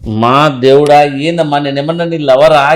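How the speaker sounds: loud, slow, drawn-out protest; mock-despairing plea; exasperated outburst. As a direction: stretch it out in loud disbelief. Doctor exasperated by the patient.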